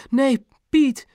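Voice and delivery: high-pitched, measured mother; slow and deliberate. A narrator's reading. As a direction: space it out thoughtfully, pitched high. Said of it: "Mam sprak traag en bedachtzaam". (traag en bedachtzaam)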